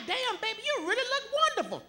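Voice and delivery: high-pitched sweet talk; mock-sweet compliment. Comic retells complimenting a woman in the crowd, mock-sweet and high.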